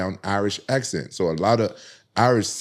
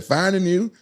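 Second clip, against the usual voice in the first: higher-pitched imitation of an Irish girl; Irish reply, pitched up at the end; 10 semitones higher, slower than usual. Irish girl repeating herself to him, imitated Irish way of talking. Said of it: "She said".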